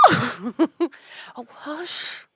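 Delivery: high, urgent hushing; frightened whisper. A narrator's reading. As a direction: shush them in alarm. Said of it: "whispered in a frightened tone".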